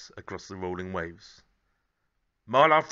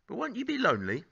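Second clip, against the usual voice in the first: Sid's voice; 12 semitones higher than usual. Acted. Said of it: "said Sid".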